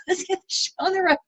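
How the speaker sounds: high, pushy mock eagerness; hammed-up eager newbie; eager go-getter. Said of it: "I'm, like, in a leather jacket and boots".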